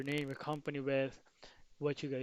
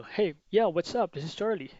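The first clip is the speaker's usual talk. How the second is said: higher, puzzled answer on the phone; confused prospect; 4 semitones higher, 9 dB louder than usual. Retold or imitated. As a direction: answer as if unsure who is calling. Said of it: "they will respond to you".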